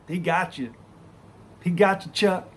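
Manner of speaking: high, loud teasing call; gleeful heckling. Retold or imitated. Coworker crowing over the comeback to the loser, loud glee. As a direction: imitate a delighted onlooker rubbing it in. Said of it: "Kyle just bust out laughing".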